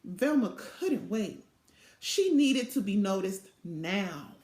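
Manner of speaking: lively storybook read-aloud voice; animated picture-book narration; reading to children. A narrator's reading.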